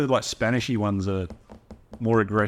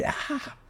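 soft, voiceless "ah"; a quiet pretend gasp, all breath; imitated rat's gasp; 8 dB quieter than usual. Co-host guesses how the rat reacted to the water, imitated gasp. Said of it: "and then they're like".

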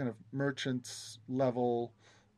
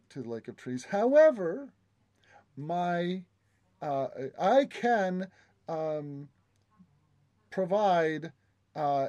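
high, eager guide voice; a lightly voiced obsequious guide; oily flattering courtier; 4 semitones higher than usual.

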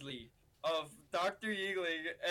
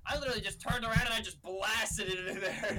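chuckling through the words; laughing; 3 semitones higher, 3 dB louder than usual. Real, not acted. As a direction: laugh as you tell it. Laughing while telling the story.

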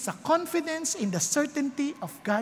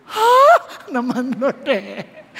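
laugh-cry; 8 dB louder, much slower than usual. Acted. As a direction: laugh through tears at the Lord. Pastor's emotional reaction, laugh-cry. (tumatawang umiiyak)

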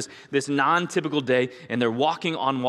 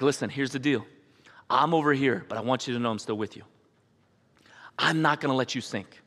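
soft, steady encouragement; reassuring dad; 3 semitones lower, 3 dB quieter than usual. Retold or imitated. Father urging his child to jump in, soft and reassuring. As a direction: quietly win the child's trust.

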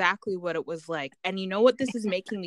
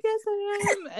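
eager yes; slower than usual. Retold or imitated. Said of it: "I was like".

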